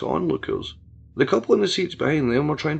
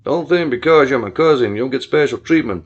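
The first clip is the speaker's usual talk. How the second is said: stated; 6 dB louder than usual. Acted. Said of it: "Billy stated".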